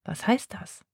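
soft, hushed question; whispered question. Acted. Sina asking Charlie in the dark kitchen, whispered. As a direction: whisper it so nobody else hears. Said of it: "flüstert Sina".

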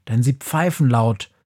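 ordinary delivery

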